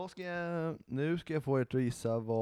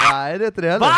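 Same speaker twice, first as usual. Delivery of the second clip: loud, high, laughing protest; laughing shout; 4 semitones higher, 11 dB louder than usual. Real, not acted. Swedish co-host laughing as she shouts back her denial. Heated quiz argument, shouting.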